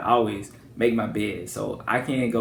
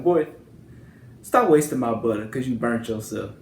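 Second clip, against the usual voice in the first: scolding grandmother; 3 dB louder than usual. Retold or imitated. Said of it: "And she's like".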